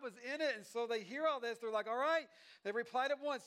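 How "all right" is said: higher, louder, rallied reply; eager agreement. Acted. People hearing Nehemiah's story agree to rebuild, eagerly. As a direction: answer as a crowd ready to go.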